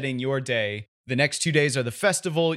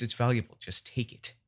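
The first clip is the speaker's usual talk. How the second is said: hushed; 2 semitones lower, 6 dB quieter than usual. Acted. Stranger urging under his breath.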